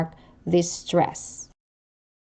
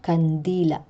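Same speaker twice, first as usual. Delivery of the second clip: kandila with stressed -di-, throat closing after the final a; penultimate glottal stress. Shown as a demonstration. Teacher repeating the example, kandila stressed on -di- with glottal catch. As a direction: stress the middle of kandila, cut the end off. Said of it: "pronounced with a glottal catch".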